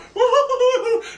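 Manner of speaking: high burst of laughter; cracking up at the idea. Real, not acted. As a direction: let a big laugh break out. Laughing at his own mockery.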